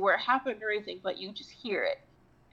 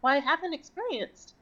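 high sassy retort; 6 semitones higher than usual. Retold or imitated. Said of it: "I was like".

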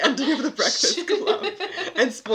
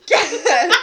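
determined exclamation; 7 semitones higher, 5 dB louder than usual. Retold or imitated. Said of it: "With such determination".

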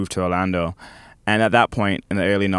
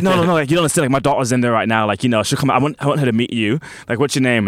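louder, higher, gushing insistence; hammed-up excited mom at the doctor's; eager pleading stranger; 3 semitones higher, 3 dB louder, faster than usual. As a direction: push to set her daughter up with him, eagerly.

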